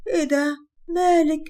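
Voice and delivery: snapping in surprise; surprised. Acted. Mother-in-law reacts to upset bride.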